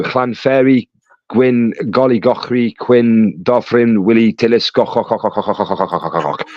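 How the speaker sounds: put-on improvised Welsh accent, dying away on repeated throaty syllables; mock Welsh accent. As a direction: rattle off a Welsh place name, petering out. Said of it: "That's my Welsh accent for you".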